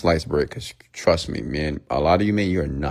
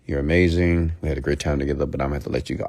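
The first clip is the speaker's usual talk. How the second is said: calm breakup demo; 3 semitones lower, faster than usual. Shown as a demonstration. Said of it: "You say".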